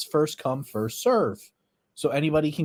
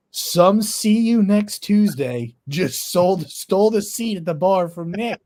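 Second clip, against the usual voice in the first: imitated loud, slow, higher proclamation; loud indignant announcement; 5 semitones higher, 6 dB louder, slower than usual. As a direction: announce the insult for the whole room. Retells Grumpy's public insult.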